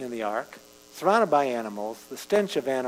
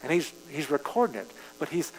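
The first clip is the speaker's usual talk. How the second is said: ordinary talk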